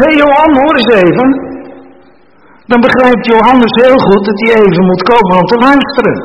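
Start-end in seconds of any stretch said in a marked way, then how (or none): 0.0-1.3 higher, louder call to Johan. Retold or imitated. Preacher calls to Johan, showing how calling sounds, higher and louder. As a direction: call out to get Johan's attention.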